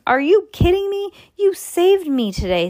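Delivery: high, loud, excited disbelief; excited protest. Acted. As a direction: burst out in grateful disbelief. Lucy protesting gratefully.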